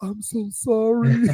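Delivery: high, slow sheepish voice; sheepish high apology, drawn out; mock apology. Daughter apologizing once she learns it is Jesus, high sheepish voice. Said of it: "she was like".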